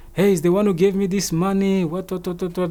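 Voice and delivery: high, whining-style mock excuse; imitated suspect's excuse. Acts out suspect making excuses.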